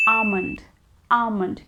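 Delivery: "almond" with no L, ah-mund; silent L. Shown as a demonstration. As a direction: drop the L in "almond". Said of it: "The L here is always silent".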